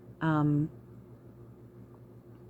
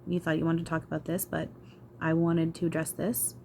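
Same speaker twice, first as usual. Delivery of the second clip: lightly raised, easygoing voice of a laid-back guide; voicing spirit guide Eric. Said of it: "and then he's going".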